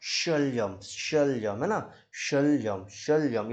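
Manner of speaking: शल्यम said again and again, श clear; repeated demo. Shown as a demonstration. Teacher drilling शल्यम. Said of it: "तो इसको बोलो शल्यम".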